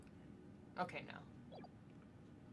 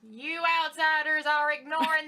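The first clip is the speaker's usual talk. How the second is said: folksy villager; 3 semitones higher, 6 dB louder than usual. Acted. Superstitious villager warns party.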